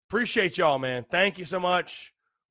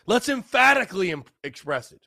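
emphatic; 2 semitones higher, 5 dB louder than usual. Real, not acted. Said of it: "let's really emphatically express it".

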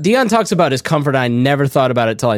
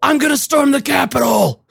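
much higher, hammed-up zealot; mock rioter; 12 semitones higher than usual. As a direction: play a giddy would-be rioter. Mocking white people.

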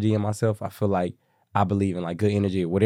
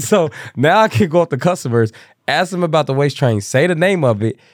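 excited plan; 4 semitones higher, 5 dB louder than usual. Retold or imitated.

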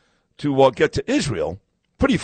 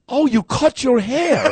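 quoting the lady, higher and slow, through laughter; laughing through quote; 9 semitones higher, slower than usual. Retold or imitated. Host retelling the religious lady's line, laughing high. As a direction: laugh while doing the confused lady. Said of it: "The lady goes".

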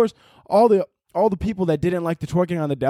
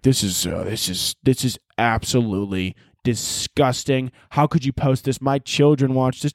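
lower-pitched, halting moral outrage; mock disgust; 6 semitones lower than usual. Hardcore Christians reacting to the music video, mock disgust. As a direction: stammer it out low, appalled.

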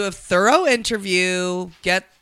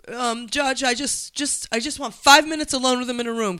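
high, pleading father begging the judge; mock desperate father begging in court; 5 semitones higher than usual. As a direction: beg the judge like a desperate dad. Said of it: "and he's like".

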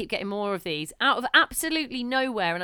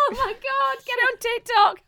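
much higher, laughing squeal; mock proud gush; 5 dB louder than usual. Parent imagining her own kid's monkey impression, laughing squeal. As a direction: gush over your own kid, laughing.

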